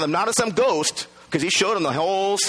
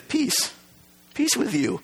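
reassuring, higher and soft; gentle peace; 7 semitones higher, 5 dB quieter, slower than usual. Acted. Jesus greeting the fearful disciples, reassuring. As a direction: soothe the fear away. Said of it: "he says".

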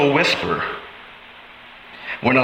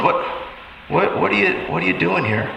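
God asks the listener why they strayed, softly; soft, hurt question; 3 semitones higher, 5 dB quieter than usual. Acted. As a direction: drop to a softer, pained ask.

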